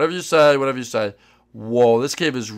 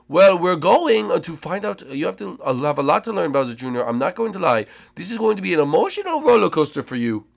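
lightly voiced chef, mysterious; a hint of a knowing mentor; half-serious guide hinting at drama; Chef Mario voice; 3 semitones higher than usual.

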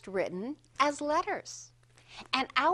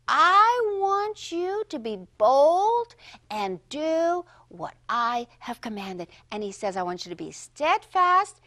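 urging Paul; 3 semitones higher, 4 dB louder than usual. Acted. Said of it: "he said to them".

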